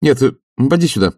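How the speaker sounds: loudly. Acted. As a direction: call the servant back loudly. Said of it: "громко сказал он". (громко, выше)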